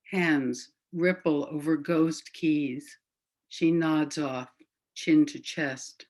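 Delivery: slow, measured poetry recital; unhurried literary reading with deliberate phrasing; poem reading. Acted. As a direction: read it as verse, leaving space after each phrase. Reads a poem aloud.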